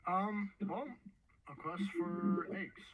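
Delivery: high, hesitant and slow; nervous little girl asking; timid girl voice. Acted. Player voices her character.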